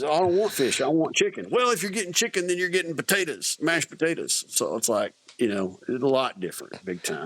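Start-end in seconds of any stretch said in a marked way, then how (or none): 0.0-1.5 high, stubborn demand for chicken; picky soldier. Retold or imitated. Soldier arguing with the server over fish, high insistent voice. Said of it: "it says". 1.5-4.4 high, fussy correction to mashed potatoes; server voice. Retold or imitated. Server insisting on the side dish, high fussy voice. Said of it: "it says".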